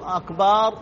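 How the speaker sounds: أكبار said "akbaar" with a long final vowel; stretched ba. Shown as a demonstration. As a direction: lengthen the vowel after b in أكبار. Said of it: "يمد الباء". (مد الباء في "أكبار")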